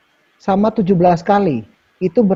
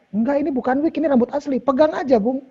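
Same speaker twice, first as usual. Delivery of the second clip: imitating the mother, higher and softer; mami's reply; 7 semitones higher, 5 dB quieter than usual. Host retelling how mami answered about her hair, higher soft imitation. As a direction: quote mum in a higher, soft voice. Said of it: "si mami jawab".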